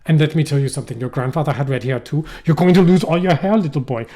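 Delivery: lightly voiced blunt German dentist; imagined German dentist. German dentist dad telling little Bill, lightly acted bluntness. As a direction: deliver bad news as a German dentist. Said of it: "He's a German dentist".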